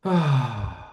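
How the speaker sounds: a contrasting open ah; different sigh. Shown as a demonstration. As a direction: demo the other kind of sound. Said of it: "Here's the different one".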